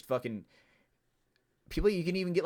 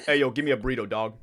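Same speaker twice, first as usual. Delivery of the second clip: louder, hammed-up slang accent; mock street accent; 5 dB louder, faster than usual. Imitating a customer ordering food, mock street accent. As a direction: put on a casual street accent. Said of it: "You know, the real accents".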